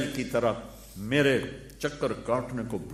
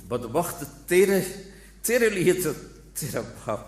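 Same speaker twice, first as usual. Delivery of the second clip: higher, louder cry of reproach; anguished outburst; 5 semitones higher, 3 dB louder than usual. Acted. Preacher scolding an ungrateful son, higher and louder. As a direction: rebuke the ungrateful son in pain.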